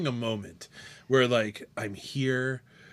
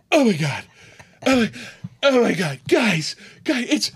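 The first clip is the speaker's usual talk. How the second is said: loud, raised, stammering disbelief; acted starstruck shock; 8 semitones higher, 6 dB louder than usual. Fan alerting his friends to the owner, acted loud shock. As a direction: call to your friends, hammed-up and starstruck.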